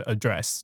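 "address" said uh-DRESS, second syllable stressed; verb stress on "address". Shown as a demonstration. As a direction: keep the weight of "address" on DRESS. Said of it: "不管是英还是美". (英美动词都念 address，重音在后)

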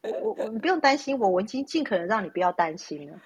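lightly voiced father, eager to reassure; imitating dad. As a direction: coax your worried daughter like a defensive father. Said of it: "他说".

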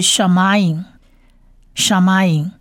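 "shamayim" slowly, as "sha-ma-yim"; demonstrated word. Shown as a demonstration. Teacher introduces the second word, "shamayim" slow and clear. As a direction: say "shamayim" carefully, pause, repeat. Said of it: "第二个字是shamayim".

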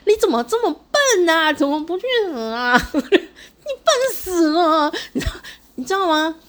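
high, loud furious shout, slowing at the end; angrier mother. Retold or imitated. Mother at the hospital bed, shouting furiously at her daughter. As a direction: yell at the child in fury. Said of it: "妈妈听了以后更生气了".

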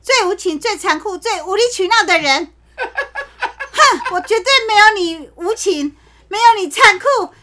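melodramatic romance reading. Pretend. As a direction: read it like a Qiong Yao drama. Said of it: "然后你要带感情".

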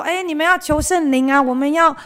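像主日学老师那样高声劝勉孩子; Sunday school teacher. Retold or imitated. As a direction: urge the kids along like a cheery teacher. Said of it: "记得老师说".

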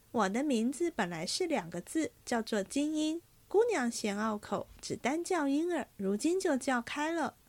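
lightly voiced young maid. Ying'er explains her name.

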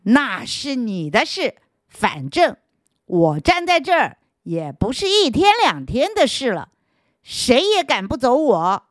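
mildly domineering stone; a hint of a bully; overbearing stone. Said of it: "石头很强横地说".

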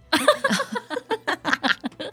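high burst of laughter at her own joke. Real, not acted. 笑自己的玩笑. (自己笑出来的高声大笑)

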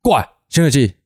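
mock stern scolding, rising on 不要用丢的; practice scolding. Coach rehearses scolding kids for throwing balls, half-hearted stern. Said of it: "好啊，你演一下".

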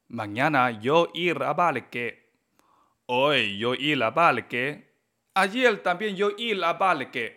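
a learner's halting, uncorrected Spanish; broken beginner Spanish. Retold or imitated. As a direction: imitate your old beginner self. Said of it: "yo hablaba así". (imitando un español de principiante)

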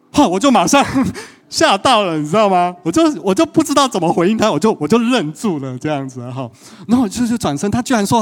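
high, loud retelling of shock; startled. Retold or imitated. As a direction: still stunned she said yes. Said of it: "我就马上吓到了".

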